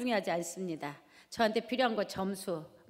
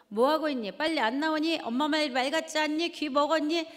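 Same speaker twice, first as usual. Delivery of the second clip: louder, higher irritated demands; scolding mother; 5 semitones higher, 3 dB louder than usual. Retold or imitated. Mother snapping at kids who ignore the dinner call, louder and higher. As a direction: snap at them for not coming.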